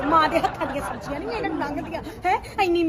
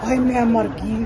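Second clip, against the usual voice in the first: shocked slow wail; 5 semitones lower, slower than usual. Acted. Shock at price.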